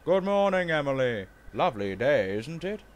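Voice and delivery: loud, hearty hello; cheerful greeting. Acted. Duke returns Emily's greeting at the station, heartily. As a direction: greet a friend with full voice.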